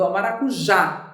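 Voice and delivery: maracujá with the final á wide open; open mouth vowel. Shown as a demonstration. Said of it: "Percebeu como a minha boca abriu?".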